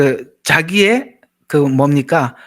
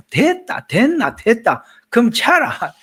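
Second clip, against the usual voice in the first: curt Gyeongsang back-and-forth, higher, half laughing; Gyeongsang coast dialect; 5 semitones higher, slower than usual. Retold or imitated. Preacher acting out blunt Gyeongsang exchange, laughing. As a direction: toss off the Gyeongsang lines with a chuckle. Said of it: "이러면 이게 말이 좀 너무하잖아요".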